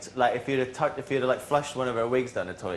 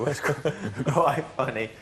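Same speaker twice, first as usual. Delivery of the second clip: laughing through the words; giggling as it comes out; 4 semitones higher than usual. Real, not acted. Laughing while telling housemates about him.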